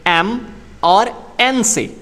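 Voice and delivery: एन stretched out very slowly; slow teaching emphasis; slow and clear. Shown as a demonstration. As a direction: drag the letter out for learners. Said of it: "इसकी pronunciation start होती है".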